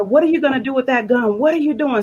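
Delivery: retold cry of alarm, voice jumping up; imitating a frightened woman's high challenge; alarmed girlfriend.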